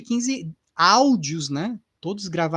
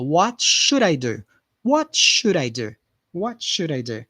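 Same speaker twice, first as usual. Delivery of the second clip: slow repeat-after-me model. Shown as a demonstration. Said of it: "repeat after me here".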